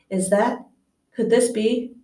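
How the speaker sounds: rising, awed question; disbelieving wonder; amazed. Acted. Bartender recognizes Harry.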